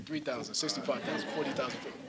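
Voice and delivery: lightly mock auctioneer, reeling off numbers; playful auctioneer. Speaker joking while gathering audience guesses, lightly mock auctioneer. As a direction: run the figures together like running bids. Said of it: "I sound like an auctioneer".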